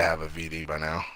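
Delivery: low whispered joke; whispered aside. Real, not acted. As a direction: slip the joke in under your breath.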